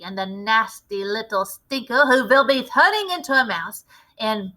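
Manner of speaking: a lightly voiced commanding witch leader; a hint of a grand witch showing off her recipe. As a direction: lecture the coven like their boss. Grand High Witch addresses the witches.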